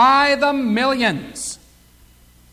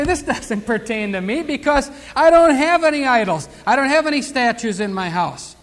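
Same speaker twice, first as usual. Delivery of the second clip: mock smug listener; 2 semitones higher than usual. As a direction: play the self-satisfied objector with a laugh. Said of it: "you might say".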